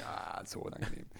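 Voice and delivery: geflüstert. Pretend. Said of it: "das ist aber jetzt unangenehm".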